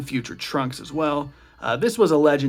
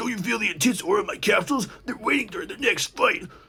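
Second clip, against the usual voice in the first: pitched-up put-on tough-guy trainer muscle man voice; 6 semitones higher than usual. Reading a game trainer's lines aloud, in a put-on muscle man voice. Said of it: "I can't do this voice anymore".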